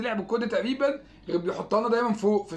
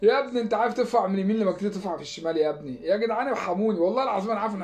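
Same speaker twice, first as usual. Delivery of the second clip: exasperated scolding; 4 dB louder than usual. Real, not acted. Scolding player from the couch.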